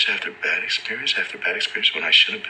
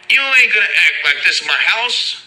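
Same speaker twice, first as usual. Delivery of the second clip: loud, high yell across the cells; inmate yelling; 11 semitones higher, 7 dB louder than usual. Retold or imitated. Inmate yelling at another inmate, loud high yell. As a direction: bellow it down from the top tier.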